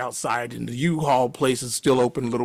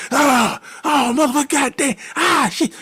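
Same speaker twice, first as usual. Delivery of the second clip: high, louder mock swearing; furious cursing; 12 semitones higher, 4 dB louder than usual. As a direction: curse out the ruined game. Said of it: "You know, he's mad".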